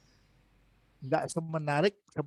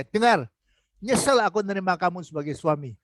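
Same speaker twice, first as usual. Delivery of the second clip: a mock yell at the husband, sharp on the first word; the wife snaps at her husband in mild mock anger; retold wife yelling. Wife yells at her lazy husband, a mildly acted shout. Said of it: "Istrinya teriak-teriak seperti itu".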